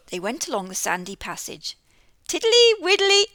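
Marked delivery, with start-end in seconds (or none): 2.3-3.3 high, loud toad chant. Acted. Mister Jackson the toad waddling down the sandy passage. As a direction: chant it while waddling along.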